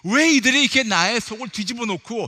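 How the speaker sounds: exasperated, pleading protest in prayer; acted-out indignant complaint, surging on each "why"; complaining to God. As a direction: cry out "why me" grievances to the Father. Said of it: "마치 불평을 했어요".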